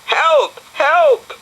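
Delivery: cry for help. Acted. Clinging to the aerial.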